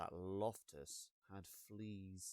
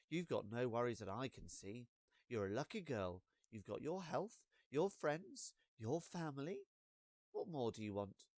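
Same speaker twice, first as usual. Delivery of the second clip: mum's brisk reassurance; 3 dB louder than usual. Acted. Mum voiced in the story.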